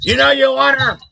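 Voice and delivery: tempting devil impression, pitched high; high, insistent mock urging; Sam Kinison. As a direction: goad him like a devil on his shoulder. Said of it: "where he was the devil".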